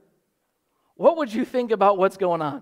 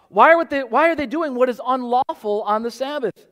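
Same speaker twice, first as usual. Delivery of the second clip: accusing critics; 4 semitones higher, 3 dB louder than usual. Retold or imitated. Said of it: "But they say".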